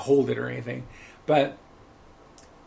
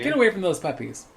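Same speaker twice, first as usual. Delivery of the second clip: milder, higher-pitched mock macaw order; talking macaw; 5 semitones higher than usual. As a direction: lightly imitate a bossy bird. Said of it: "the bird honestly said".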